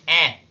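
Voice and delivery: "eh" as the æ vowel, lips spread in a smile; an A said through a smile on "eh"; smiled A sound. Shown as a demonstration. Teacher isolates the symbol's sound, "eh" as a smiled æ. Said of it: "una A sonreída".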